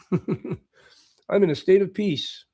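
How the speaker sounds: drawn out slowly, savoring the joke; slow punchline. Shown as a demonstration. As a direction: stretch it out, pleased with the pun. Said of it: "I say, "A state of peace".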